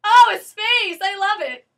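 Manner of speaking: high, loud burst of delight; delighted exclamation. Real, not acted. Speaker finding a space to stand, high excited exclamation. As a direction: squeal it out.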